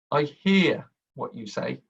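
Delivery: "hear" slow, leaned on; stress on hear. Shown as a demonstration. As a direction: weigh on "hear". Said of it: "You will see people say".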